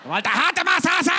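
half-laughing loud outcry. Retold or imitated. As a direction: still reeling from the massage. Exclaiming after pain.

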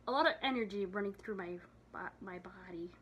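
winded, tired voice after a sigh; out of breath. Real, not acted. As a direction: talk while still catching your breath. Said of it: "I'm just out of breath and just tired".

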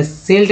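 सिल्ट with an 'e', close to 'selt'; सिल्ट said nearly as 'selt'; wrong front vowel. Shown as a demonstration. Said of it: "नहीं बोल रहे".

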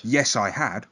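lightly posh storyteller voice. Acted. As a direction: read it in a hint of posh. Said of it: "the posh voice".

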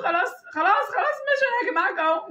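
retold giving in. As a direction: pitch climbing in hurried surrender. تستسلم له وهو يجرها. (استسلام محكي لتهدئته)

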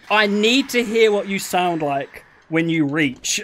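"need" leaned on in a slow read; stress on need. Retold or imitated. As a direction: read slowly, giving "need" the capital letters. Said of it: "all caps for the need".

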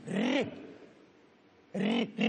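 repeated trilled "R", spaced out; rolled R drill. Shown as a demonstration. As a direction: demonstrate "R" as a long trill. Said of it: "Spune R".

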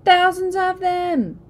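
put-on terrified child wail; frightened wail. A narrator's reading. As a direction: wail in panic. Sister still wailing in fright.

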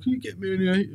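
high, pinched plea through tears; mock crying plea. Begging the dealer over the phone, crying. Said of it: "it was the voice that you done".

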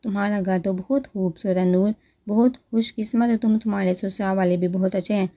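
plain reading voice

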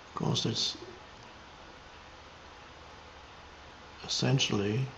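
meditative, spacious delivery; contemplative spiritual teaching. Real, not acted. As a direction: reflect unhurriedly, letting each phrase settle.

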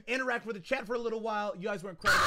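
ordinary talk

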